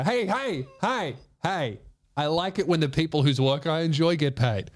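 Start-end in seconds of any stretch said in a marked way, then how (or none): 0.0-1.8 mock scolding. Scolding ad-block users.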